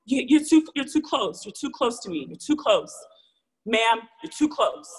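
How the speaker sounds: mock yelled warning, settling down; retold yell. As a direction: imitate a woman yelling, strongest at first. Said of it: "she yells at me".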